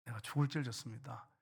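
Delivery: softly acted penitent prayer; repentant confession. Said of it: "자신의 잘못을 깨닫고". (뉘우치듯 나직이 고백하는 기도)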